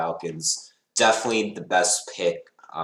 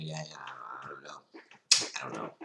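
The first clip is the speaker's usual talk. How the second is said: defeated mumble; 6 semitones lower, 12 dB quieter, much faster than usual. Real, not acted. Trailing off in dismay.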